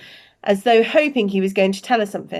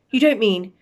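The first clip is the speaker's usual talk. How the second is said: cried out; 4 semitones higher, 3 dB louder than usual. Acted. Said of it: "cried Professor McGonagall".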